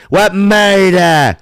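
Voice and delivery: high, loud laughing burst. Real, not acted. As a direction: crack up laughing while asking. Laughing at own insult.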